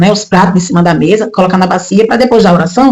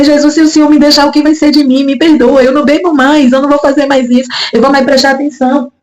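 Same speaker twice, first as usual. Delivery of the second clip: higher, urgent retold prayer; retold tearful pleading; 4 semitones higher than usual. Woman recalling her promise to Jesus, mildly tearful pleading. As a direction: plead for another chance, understated tears. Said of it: "eu comecei a chorar muito".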